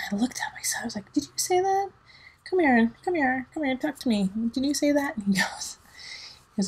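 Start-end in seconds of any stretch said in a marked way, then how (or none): 1.1-5.2 higher, stern mom questioning; mama mode. Retold or imitated. Mother confronting her son about cursing, stern. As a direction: demand the truth like a mom. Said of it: "I was in mama mode".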